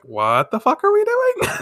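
high-pitched baffled group reaction; incredulous. Acted. Classmates baffled in cutaway.

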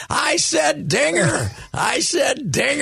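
high-pitched insistent mock shout; mock yelling. Larry insisting on what he said, mock yelling. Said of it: "So Jerry starts yelling".

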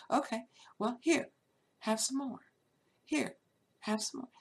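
sing-song taunt handing out punishment; mocking trickster. Trickster piling on trouble.

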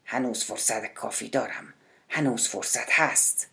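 soft and low, said to himself; muttered under breath. A narrator's reading. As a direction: mutter it quietly, as if reassuring himself. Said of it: "سپس زیر لب گفت". (زیر لب و آهسته)

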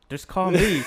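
exasperated. Real, not acted. Venting about texts saying call me.

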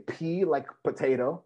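lightly voiced mom spelling out letters; a hint of mom spelling letter by letter; fond mock of mom's spelling. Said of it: "like my mom used to say".

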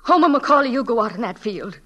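put-on teacher sending the boy out to race; rousing call. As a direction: fire him up with his name.

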